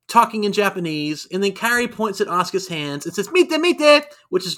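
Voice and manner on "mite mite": high excited anime exclamation; anime girl voice. Retold or imitated. Kairi pointing at Asuka's hand, squealing like anime. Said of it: "channeling anime girls".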